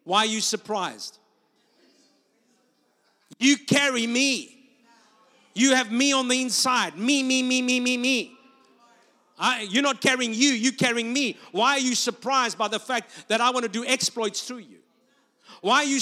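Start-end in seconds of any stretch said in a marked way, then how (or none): 0.0-1.2 voice of the Lord. Acted. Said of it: "what the Lord said to me". 3.4-8.3 higher and louder, slow and weighty; God insisting, pressing each word; God tells the preacher he is carried within; booming voice of God. Acted. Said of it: "what the Lord said to me". 9.4-13.4 voice of the Lord. Acted. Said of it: "what the Lord said to me".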